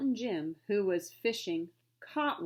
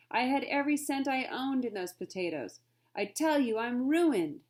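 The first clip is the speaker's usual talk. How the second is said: despairing trader; 4 semitones higher, 4 dB louder than usual. Acted. Trader laments his loss.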